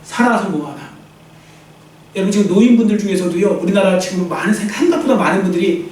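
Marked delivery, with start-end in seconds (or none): 0.0-0.8 understated, hopeless murmur to oneself; subdued, resigned acting; acted despair. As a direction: voice someone giving up on life. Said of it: "극단으로 가면".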